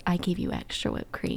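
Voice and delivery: whispered, conspiratorial aside; breathy hushed wink of a line; secretive whisper. Retold or imitated. Employee handing over drinks, whispering the secret. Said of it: "she's like, winks at us".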